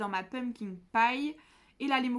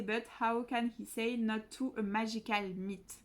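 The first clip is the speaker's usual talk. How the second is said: French-accented English. Shown as a demonstration. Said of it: "mon accent est pourri".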